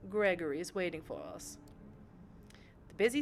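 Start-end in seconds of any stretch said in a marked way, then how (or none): 0.1-1.6 lightly voiced genteel mentor to a young vampire; a hint of a refined patron's voice; elegant vampire patron. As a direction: instruct your protégé, poised and measured. Voices the patron Sophie in game.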